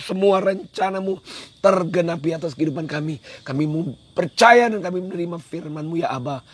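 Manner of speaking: earnest prayer addressed straight to God; spoken prayer. Real, not acted. Preacher leading his livestream audience in thanksgiving prayer, earnest. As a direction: pray it aloud, giving thanks for the day.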